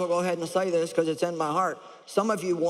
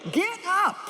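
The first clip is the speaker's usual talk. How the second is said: higher, louder get up; commanding shout; 11 semitones higher than usual. Shown as a demonstration. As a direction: bark the order to rise. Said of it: "he got loud about it".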